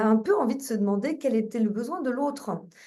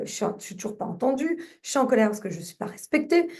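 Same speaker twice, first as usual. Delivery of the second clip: venting anger; 3 semitones higher, faster than usual. Shown as a demonstration. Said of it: "en disant des, des, des morceaux de phrases".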